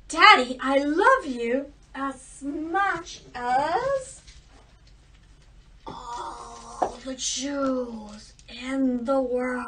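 put-on slow, drawn-out girlish gush; doting second daughter. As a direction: savour every jewel. Second daughter answers the king.

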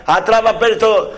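normal talking voice

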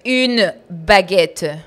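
very slow, loud "Une baguette", hammered out; angry correction. Retold or imitated. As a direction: correct me crossly, stretching every word. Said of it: "pero con rabia".

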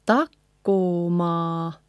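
slow takkoma ending on open A; no final N. Shown as a demonstration. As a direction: stretch takkoma, leaving the end open. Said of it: "not with the N in the end".

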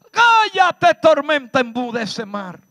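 high, loud shout of command; Jesus shouting down the storm. Acted. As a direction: rebuke the storm with full authority. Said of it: "Jesús dijo".

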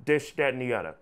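"this, that, and the other" as "dis, dat, and di udda"; hard D on "this" and "that", A ending on "other". Shown as a demonstration. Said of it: "replace them with D's and".

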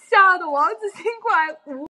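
usual speaking voice

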